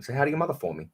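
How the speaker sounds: lightly done celebrity impression; a rapper-turned-actor. Shown as a demonstration. Showing the host the impression just used, lightly mimicked. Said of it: "Marky Mark im-, impression".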